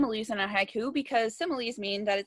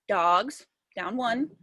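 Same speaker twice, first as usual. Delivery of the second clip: counting syllables; 2 semitones lower, much slower than usual. Shown as a demonstration. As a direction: say DOGS as one separate counted beat. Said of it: "let me count how many times my chin goes down".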